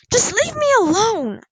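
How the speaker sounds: loud, high-pitched outburst; yelling. A narrator's reading. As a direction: yell to be left in peace. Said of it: "Poppy yelled".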